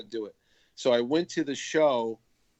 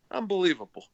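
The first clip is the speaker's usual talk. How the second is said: higher-pitched mock amazement; retold stunned disbelief; floored; 6 semitones higher than usual. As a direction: imitate someone who can't believe it. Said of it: "he was floored by that whole thing".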